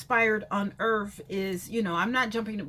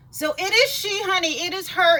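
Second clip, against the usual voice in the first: hammed-up catchphrase; 7 semitones higher, 9 dB louder than usual. Catchphrase intro, much louder.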